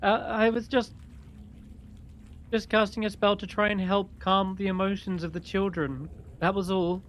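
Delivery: high, hesitant woman's voice; Faith making excuses. Acted. Faith explains her spell to the hag, innocent excuse. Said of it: "So, she casts this spell".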